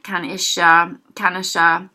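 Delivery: kan ikke slurred into one word, kanisha. Shown as a demonstration. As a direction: say kanisha quick and run together. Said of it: "pronounced more like kanisha".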